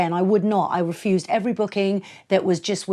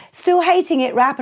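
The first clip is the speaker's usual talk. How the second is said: teasing promoter; 10 semitones higher, 6 dB louder than usual. Retold or imitated.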